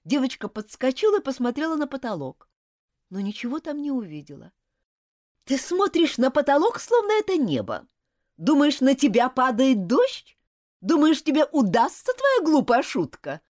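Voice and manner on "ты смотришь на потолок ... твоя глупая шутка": louder, scolding yell at a pupil; furious teacher's shout. A narrator's reading. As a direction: bawl the girl out in front of the class. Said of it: "закричала мадемуазель".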